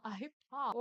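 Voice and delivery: Potter with the T swallowed, po-ah; Harry Potter, glottal stop for the T; British T dropped. Shown as a demonstration. Teacher contrasting two British ways to say Potter. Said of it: "com nenhum sotaque".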